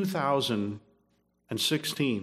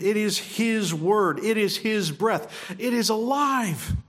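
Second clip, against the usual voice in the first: higher and slowing, each phrase lifted; higher, slow preaching build; rising proclamation; 6 semitones higher than usual. Real, not acted. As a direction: build the claim upward like a preacher.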